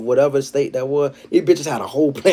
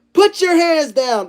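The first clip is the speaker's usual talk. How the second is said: much higher and slow commanding shout; cop order; 4 dB louder, slower than usual. Retold or imitated. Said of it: "He said".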